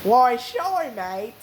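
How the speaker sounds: put-on a light Australian accent, relaxed. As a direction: answer casually like an Aussie. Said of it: "That's a good Australian accent".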